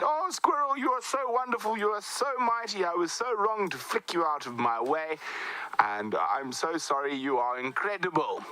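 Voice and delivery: high, gushing humble praise; fawning defeated elephant. Acted. The beaten elephant gushing over the squirrel, high and fawning. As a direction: grovel with exaggerated admiration.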